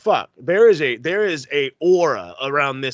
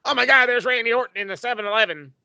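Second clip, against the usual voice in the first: fanboy mark; 6 semitones higher, faster than usual. Retold or imitated. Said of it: "eleven-year-old mark".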